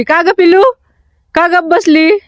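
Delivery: high coaxing coo. Real, not acted. Cooing to silent baby.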